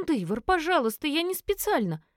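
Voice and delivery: put-on high desperate young woman's voice; Элис pleading. A narrator's reading. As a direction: beg him, near tears.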